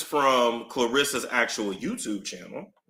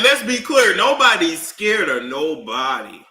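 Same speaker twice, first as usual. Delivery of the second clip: mock Remy; 4 semitones higher, 7 dB louder than usual. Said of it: "she said".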